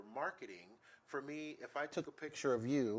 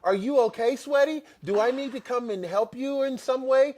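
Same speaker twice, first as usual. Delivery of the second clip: high, loud mock yelling of a typed message; imitating an insistent texter at full volume; all-caps shouting; 12 semitones higher, 12 dB louder than usual. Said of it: "sending me messages in all caps".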